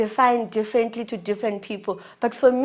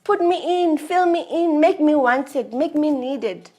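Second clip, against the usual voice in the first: raised, louder, higher demand; exasperated plea; 6 semitones higher, 7 dB louder than usual. Retold or imitated. Girlfriend begging him to communicate, exasperated. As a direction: urge it insistently in quick bursts after a drawn-out start. Acted plea in a couple's quarrel.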